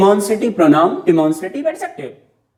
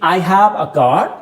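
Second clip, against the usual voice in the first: slow demo; much slower than usual. Shown as a demonstration. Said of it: "मैंने बोला".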